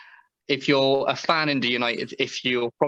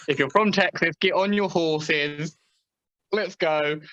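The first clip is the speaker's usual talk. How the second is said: put-on Texan accent; 4 semitones higher than usual. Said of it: "that accent".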